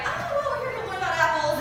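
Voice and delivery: high-pitched teacher covering smoothly; teacher correcting kids. Retold or imitated. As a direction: imitate a teacher steering the class back. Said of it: "And she's like".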